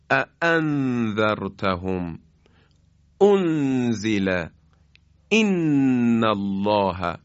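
both hamzas in اَأَنذَرْتَهُمْ struck sharp and weighty; sharp heavy hamza. Shown as a demonstration. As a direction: punch each glottal stop in اَأَنذَرْتَهُمْ.

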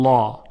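"لا" said heavy, with a dark l and back vowel; wrongly heavy lam on "لا", dark and full; thick lam. Shown as a demonstration. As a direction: make "لا" a thick, rounded "law". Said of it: "چون لا تفخیم شده".

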